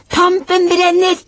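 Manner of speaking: very high, slow, loud shriek of the clue; screaming as loud as possible. Acted. Papa and Aurora screaming the clue as mamma looks behind the dresser. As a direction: scream it with everything you have. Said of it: "skrek de ... så høyt de bare kunne".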